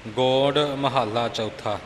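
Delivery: slow ਗੋੜ with a long pure o; pronounced with hora. Shown as a demonstration. Teacher correcting the reader's heading, ਗੋੜ slowly with long o. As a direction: say ਗੋੜ with o, not an au vowel. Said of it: "ਇੱਥੇ ਹੋੜੇ ਨਾਲ ਪਾਠ ਹੈ, ਕਨੌੜਾ ਨਹੀਂ".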